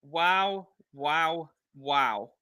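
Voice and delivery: stunned, trailing off in disbelief; amazed wow. Real, not acted. Reacting to amazing play.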